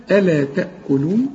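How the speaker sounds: ألا تأكلون with a thin, unstressed lam; light lam in ألا. Shown as a demonstration. Quran teacher to student: ألا with a light, unstressed lam. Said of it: "وكل الحروف مرققة".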